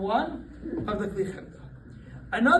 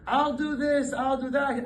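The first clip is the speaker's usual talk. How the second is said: carefree father; 5 semitones higher, slower than usual. Retold or imitated. Father voiced taking the risk.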